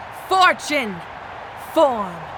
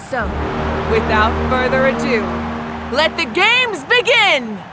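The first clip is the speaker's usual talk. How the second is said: grand proclamation. Acted. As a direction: fling the opening out to the whole arena. Archon opens the tournament.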